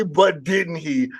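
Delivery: slow, drawn-out sly detective voice; Pink Panther voice. Shown as a demonstration. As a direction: stretch it out like a sneaky cartoon sleuth. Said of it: "and my most Pink Panther voice".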